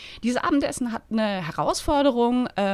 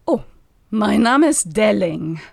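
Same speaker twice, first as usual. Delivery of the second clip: fluted, sonorous; 3 semitones lower, 3 dB louder than usual. Acted. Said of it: "flötete ... mit erstaunlich sonorer Stimme".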